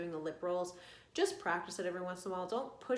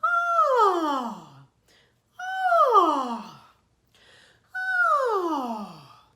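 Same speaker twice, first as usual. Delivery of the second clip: high loud ah sliding down; falling yawn; 11 semitones higher, 16 dB louder, much slower than usual. Shown as a demonstration. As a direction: let the yawn fall. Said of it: "from high to low".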